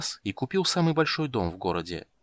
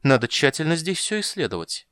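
twitchy squeaking rat voice; 6 semitones higher, 3 dB louder than usual. A narrator's reading. Rat keeps speaking.

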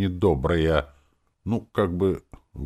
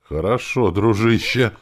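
serious face; 7 semitones higher, 8 dB louder than usual. A narrator's reading. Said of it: "сказал он с серьёзной моськой".

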